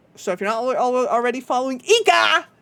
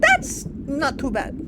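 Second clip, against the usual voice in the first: slow drawl; 4 semitones higher, much slower than usual. Acted. Repeating slowly in a drawn voice.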